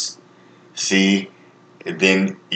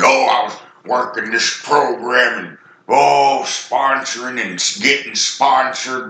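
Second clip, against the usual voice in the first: higher, airy mock voice sending up program jargon; mocking recovery talk; 4 semitones higher than usual. Preacher mocking recovery-program clichés to his viewers, higher-pitched sarcastic voice. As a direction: lightly parody the sponsor crowd.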